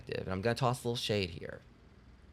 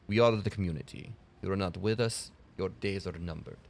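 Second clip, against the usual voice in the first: a faint Russian villain voice, announcing a threat; Russian accent; 3 semitones lower than usual. Pretend. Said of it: "I'm not the best with a Russian accent".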